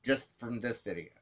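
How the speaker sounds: a light take on Amanda; Amanda impression. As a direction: mimic her repeated phrasing lightly. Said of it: "quick impression of Amanda".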